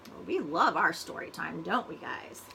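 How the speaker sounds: ordinary delivery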